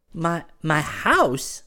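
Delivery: high, slow, stammered echo; taken aback. A narrator's reading. Girl echoes his request for an introduction, taken aback. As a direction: repeat it in halting surprise. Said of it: "she repeated".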